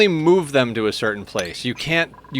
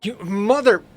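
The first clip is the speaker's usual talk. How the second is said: cut-off curse; 9 semitones higher, 3 dB louder than usual. Real, not acted. Cursing at game, cut off.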